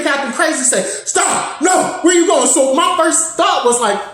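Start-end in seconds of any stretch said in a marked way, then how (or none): 1.0-2.5 retold yelling. Captain Crazy yelling in building.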